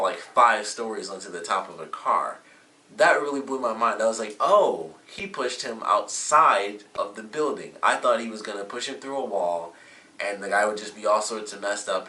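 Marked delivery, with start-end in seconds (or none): 4.4-7.7 surprised. Retold or imitated. Stunned reaction to plot twist.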